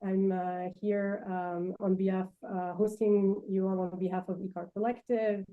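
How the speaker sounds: delicate voice. Real, not acted. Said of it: "the speaker's very delicate voice".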